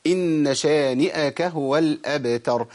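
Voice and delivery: slow measured recital; careful Tajweed model reading; Quranic recitation. Shown as a demonstration. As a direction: recite the verse slowly with full nasal hold.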